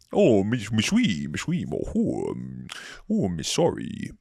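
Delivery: fumbling mock-French babble; clumsy French impression, swooping in pitch; bad French accent. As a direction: flail through a hopeless French accent. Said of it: "Don't you guys wish you could do accents?".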